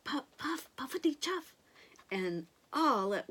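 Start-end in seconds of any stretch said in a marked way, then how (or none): 0.0-1.5 engine puff. A narrator's reading. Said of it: "The sound became louder".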